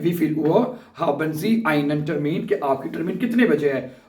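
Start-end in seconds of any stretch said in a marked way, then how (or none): 0.0-2.5 very slow, every German word spelled out for learners; slow dictation. Shown as a demonstration. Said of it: "आपसे ये सवाल पूछा जा सकता है".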